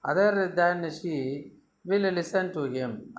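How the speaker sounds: slow, with other leaned on; slowed teacher demo of stress on other. Shown as a demonstration. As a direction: land on other, then let it fall. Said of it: "I think someone".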